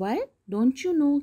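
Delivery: put-on a girl amazed that the scarecrow doesn't know Oz; surprised. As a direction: play Dorothy's astonishment for the class. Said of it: "Dorothy was surprised".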